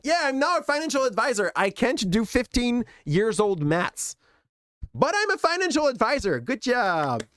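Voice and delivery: high, smug mock brag; mocking bragging recruit. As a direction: parody a proud new advisor, pitch up. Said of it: "Like, they are like".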